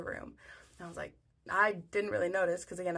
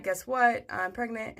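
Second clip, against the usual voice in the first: loud, raised opening; announcing news; 3 semitones higher, 4 dB louder, slower than usual. Retold or imitated. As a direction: share big news with everybody. Husband announcing the news to everybody.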